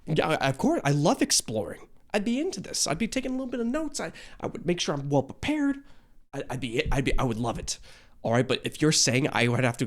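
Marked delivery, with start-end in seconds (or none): 0.1-7.8 eager yes. Retold or imitated. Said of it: "And I'm like".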